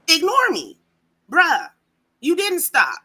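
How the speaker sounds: barking like a drill sergeant. Real, not acted. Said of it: "Her voice got all deep".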